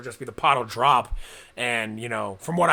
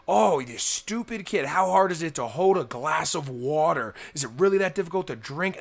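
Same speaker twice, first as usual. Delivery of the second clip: mock irritated thoughts. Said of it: "you will be like".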